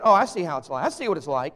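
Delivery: loud hurt indignation, mock; offended church member. Church member miffed that the preacher rushed off, mock indignant. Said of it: "they're thinking".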